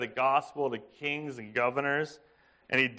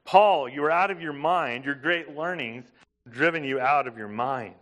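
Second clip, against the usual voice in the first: mock loud accusation. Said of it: "Festus said with a loud voice".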